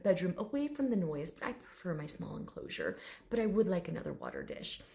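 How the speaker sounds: lightly voiced quiet dignity; proper gentleman. Dragon choosing his small enclosure, gently proper. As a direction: state preferences with soft formality. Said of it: "this very proper gentleman".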